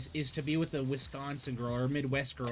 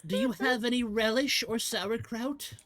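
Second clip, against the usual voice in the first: mock pleading husband; 8 semitones higher than usual. Acted bedroom request to wife.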